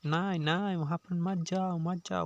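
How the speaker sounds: half-voiced imitation of someone yelling a warning; mock warning shout. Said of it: "चिल्ला रहा है".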